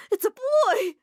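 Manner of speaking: high, loud delighted outburst; joyful shout. Acted. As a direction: burst out with the news. Mom announces after stammer.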